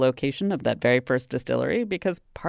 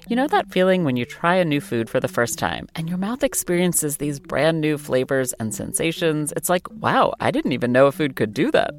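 lively, polished sponsor read. Acted. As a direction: sell the experience with upbeat emphasis. Host reads sponsor message.

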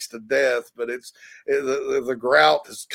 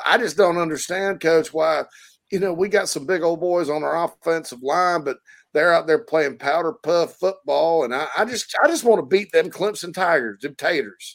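a Southern caller ranting; 3 semitones higher than usual. Retold or imitated. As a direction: rant like a frustrated fan caller. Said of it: "whole rant about".

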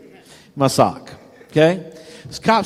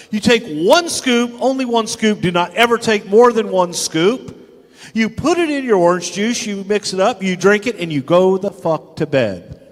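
higher-pitched, insistent rules; emphatic instruction; 5 semitones higher than usual. Retold or imitated. Explaining to his friend how to take it, emphatic warning. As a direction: drill each step into him.

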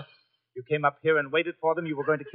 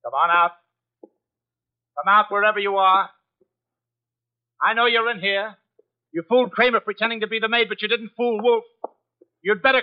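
suspicious guard; 6 semitones higher, 3 dB louder than usual. Acted. Searching the apartment for intruder.

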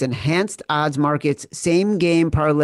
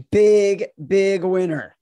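loud, high hype; hyped up; 5 semitones higher, 4 dB louder, slower than usual. Acted. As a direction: sell big winner hard. Hyped intro.

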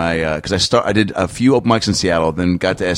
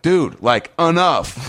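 cow voice; 7 semitones higher, much slower than usual. Retold or imitated. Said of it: "the cow would just speak up".

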